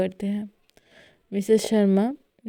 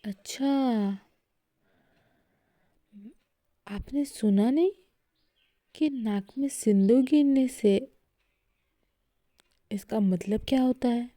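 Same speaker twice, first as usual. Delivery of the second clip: joking tone; 2 semitones higher than usual. A narrator's reading. Mehar teases Aarohi about the spilled sindoor. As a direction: tease her lightly. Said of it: "मजाकिया tone में कहती है".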